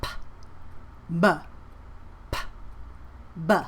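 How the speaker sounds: "P" unvoiced against voiced "B"; P and B contrast. Shown as a demonstration. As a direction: alternate breathy "P" and buzzing "B". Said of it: "the same lip position".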